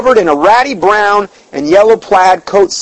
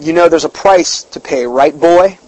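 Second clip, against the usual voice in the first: threatening devil voice; 2 semitones lower than usual. Retold or imitated. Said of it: "lower now and more threatening".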